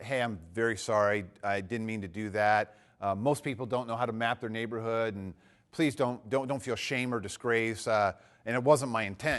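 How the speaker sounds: low, soft, conciliatory; retold apology. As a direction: apologize gently to reassure. Retold apology to embarrassed attendee.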